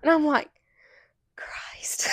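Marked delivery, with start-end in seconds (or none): 1.3-2.1 a muttered unvoiced curse; exasperated whisper. Mother muttering to herself at her son's question, whispered. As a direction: breathe it out under your breath.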